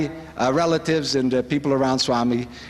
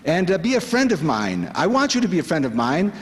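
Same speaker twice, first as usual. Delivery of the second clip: quoting Swami; 5 semitones higher than usual. Retold or imitated. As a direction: coax like a loving friend. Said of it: "But he says".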